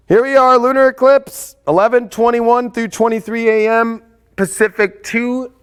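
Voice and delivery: here we are, hype it up; grand reveal of the eclipse; excited announcement. Real, not acted.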